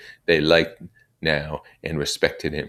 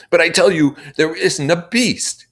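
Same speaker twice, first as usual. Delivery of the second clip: louder, higher, emphatic insistence; insisting loudly; 9 dB louder than usual. Acted. Ralph insisting loudly to the doubting assembly. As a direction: hammer the point home to the crowd. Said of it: "make the point loudly and again".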